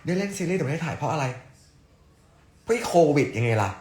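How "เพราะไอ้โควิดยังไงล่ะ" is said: mock outburst. Mock outburst blaming COVID.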